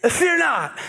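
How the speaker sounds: timid, unconvincing Fear not; weak first try. Acted. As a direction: say it like a nervous speaker. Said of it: "Try that again".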